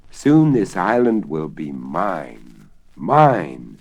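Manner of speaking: proud, slow kingly declaration; a hint of a gloating king; lightly voiced king. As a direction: savour each word like a conqueror. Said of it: "he declared to the five knights".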